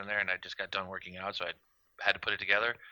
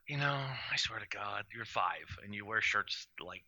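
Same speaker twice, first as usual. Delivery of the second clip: wifely scolding; 2 semitones lower, 9 dB quieter than usual. Retold or imitated. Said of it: "wifely, like".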